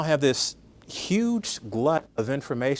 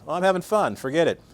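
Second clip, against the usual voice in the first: voicing a dog; 5 semitones higher, 3 dB louder than usual. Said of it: "the dog is like".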